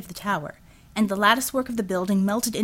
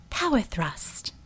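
Einhorn's voice, slow and soft; 4 dB quieter, slower than usual. A narrator's reading. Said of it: "Einhorn said".

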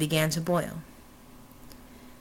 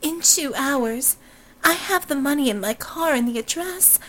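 higher, haughty society-lady voice; haughty heiress; 6 semitones higher than usual. Acted. Robinson dismissing Fata, high haughty heiress voice. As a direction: play her as a high, aloof blonde.

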